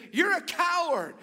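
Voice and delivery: high, loud taunting shout; storyteller's frustrated shout; frustrated yell. Retold or imitated. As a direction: holler the insult out across the valley. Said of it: "he finally got frustrated".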